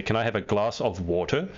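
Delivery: American "Can I have a glass of water?" with a flat a and an r at the end; American accent. Shown as a demonstration. Host explains what New Yorkers will understand. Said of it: "if you go with your U K accent".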